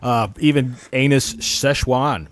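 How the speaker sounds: mock sponsor ad read; hammed-up commercial voice.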